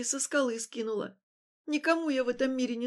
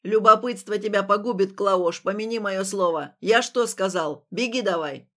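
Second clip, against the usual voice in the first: put-on scolding old man; 3 semitones lower, 7 dB louder than usual. A narrator's reading.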